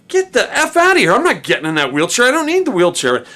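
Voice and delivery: defiant refusal. Retold or imitated. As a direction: refuse the wheelchair outright. Refusing the wheelchair.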